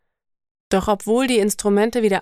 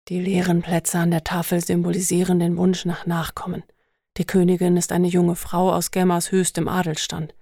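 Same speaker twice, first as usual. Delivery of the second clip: Hunt's voice; 3 semitones lower than usual. Acted. Hunt explains, character voice.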